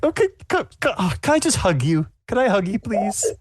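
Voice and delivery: high, pleading granny; high eager old lady. Acted. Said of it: "she's like".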